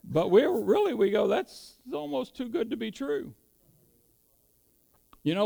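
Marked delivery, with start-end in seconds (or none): 1.3-3.3 higher, lightly voiced disbelief; doubting inner thought. Preacher voices believers' unspoken doubt about the Bible, mildly incredulous. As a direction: voice a private doubt, pitched up. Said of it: "we may not really think it out loud".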